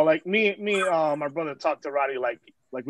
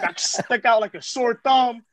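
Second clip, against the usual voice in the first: higher, drawn-out mock lament; retold self-pity; 5 semitones higher than usual. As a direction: slowly imitate his woe-is-me outburst. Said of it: "letting it all out".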